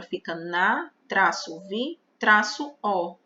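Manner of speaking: na, vi, o said apart; syllable split. Shown as a demonstration. Teacher splits navio into syllables for students. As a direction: say na, vi, o as separate beats. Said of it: "Vamos separar essa palavra".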